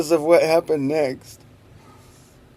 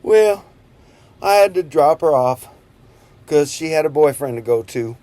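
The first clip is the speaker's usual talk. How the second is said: emphatic; 7 dB louder than usual. Real, not acted. Punchline emphasis.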